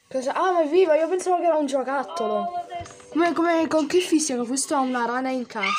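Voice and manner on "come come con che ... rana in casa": shocked shout at the screen. Real, not acted. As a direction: yell it in disbelief. Reacting to a video.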